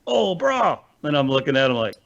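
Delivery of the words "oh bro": Pidgin voice. Retold or imitated. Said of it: "and they're like".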